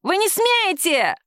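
high, slow, shrieking protest; shrill woman. A narrator's reading. Detained woman shrieks at the police officers. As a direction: screech your refusal.

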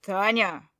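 loud bark of her name; a sharp, loud call. Acted. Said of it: "рявкнул так".

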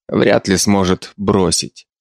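ordinary delivery, nothing marked

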